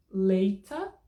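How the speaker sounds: LATER with a crisp loud T, ending in 'ah'; hard T, no R. Shown as a demonstration. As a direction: drop the R from LATER, sound the T. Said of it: "cinco opções".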